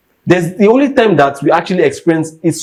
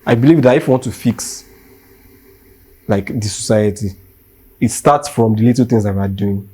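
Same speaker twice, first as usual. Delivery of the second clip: calm, mellow; 5 semitones lower than usual. Real, not acted. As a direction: bring it down and reason it through. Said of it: "mellow down and just be calm".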